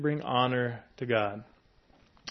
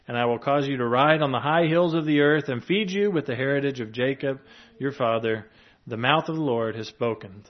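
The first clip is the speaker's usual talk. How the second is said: measured, louder reading of scripture; 3 dB louder than usual. Acted. Preacher reads Isaiah to the congregation, measured and solemn. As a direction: proclaim the verses to the congregation.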